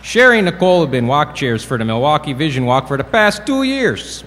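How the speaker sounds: playful attempt at a Milwaukee accent. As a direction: lightly put on a Milwaukee accent, pitch jumping up at the end. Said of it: "I will do my best Milwaukee accent".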